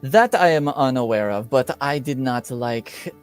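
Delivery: put-on measured accented nobleman with long pauses; lightly put-on courteous lord; Lord Vargas in character. Vargas explaining why he came for his daughter, measured lord.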